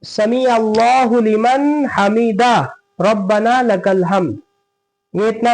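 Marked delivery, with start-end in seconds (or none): 0.0-4.4 slow measured recitation; prayer words recited. Shown as a demonstration. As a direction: say it slowly as in prayer. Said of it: "क्या कहेंगे?".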